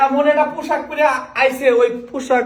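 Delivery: high sheepish laughing protest; laughing defense. Acted. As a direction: laugh nervously while blaming her. Defending himself to angry wife.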